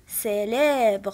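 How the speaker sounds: سيليبر slowly, starting on a clear S; C pronounced as S. Shown as a demonstration. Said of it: "سي الا كانت حداها اي كنطقها". (سيليبر بشوية، السي كتنطق اس)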